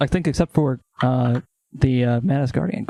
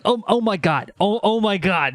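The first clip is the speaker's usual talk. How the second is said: higher, mildly panicked fretting; Jewish guy freaking out; 5 semitones higher, slower than usual. Acted. Player imagining the official freaking out, flustered. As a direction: fret in repeated little bursts. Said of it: "I'm imagining him as, like, a Jewish guy".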